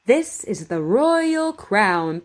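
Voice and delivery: slow, careful model sentence for repeating; over enunciating. Shown as a demonstration. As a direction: say each word clearly and slowly. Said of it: "Just repeat after me".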